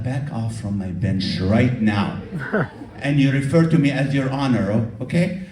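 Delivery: a stern judge snapping at the bench; angry judge. Retold or imitated. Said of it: "Oh, he was mad".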